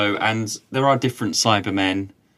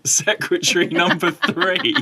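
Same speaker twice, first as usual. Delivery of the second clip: higher, drawn-out jokey voice, laughing; hammed-up catchphrase; 6 semitones higher than usual. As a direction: stretch it out through a laugh. Repeating a jokey programme catchphrase.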